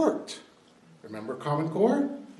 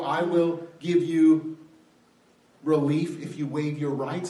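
George the third; 3 semitones higher, 6 dB louder than usual. Acted. King bargaining with colonists over their rights, lightly imperious. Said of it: "sound familiar from George the third".

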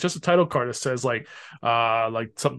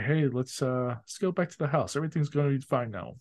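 eerie calm; 7 dB quieter than usual. Retold or imitated. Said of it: "when she gets super calm".

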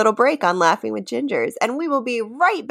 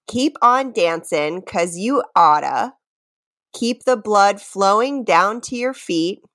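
reading lyrics aloud. Shown as a demonstration. To her friend, reciting lyrics as a quiz clue.

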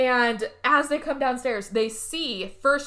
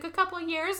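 mock hissy fit; 7 semitones higher, 4 dB quieter than usual. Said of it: "starts throwing a hissy fit".

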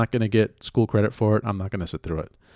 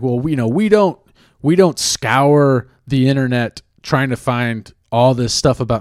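mock protest; 3 semitones higher, 6 dB louder than usual. Mimics people's defensive denial.

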